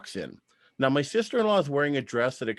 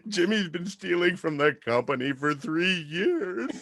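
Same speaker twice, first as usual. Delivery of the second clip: frantic blurting; 5 semitones higher than usual. Retold or imitated. Fired worker spilling secrets to the boss, high frantic laughing blurt. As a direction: spill everything in a high, desperate rush.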